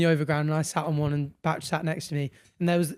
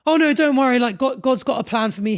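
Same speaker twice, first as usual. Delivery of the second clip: confident religious man; 6 semitones higher, 6 dB louder than usual. Retold or imitated. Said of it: "And he goes".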